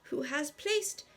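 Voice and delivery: headmaster's formal feast announcement; Dumbledore. Acted. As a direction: address the hall ceremoniously, drawing out the ending. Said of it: "Dumbledore stood up to announce the feast".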